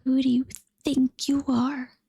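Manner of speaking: whispered hiss of a tomcat. Acted. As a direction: hiss the words like a cat. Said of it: "the tomcat hissed".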